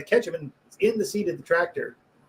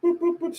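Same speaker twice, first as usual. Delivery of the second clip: higher, evenly spaced phone beeps; Snapchat noises. Retold or imitated. Mocking the kid playing on his phone, Snapchat noises. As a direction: imitate little app blips. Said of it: "Snapchat noises".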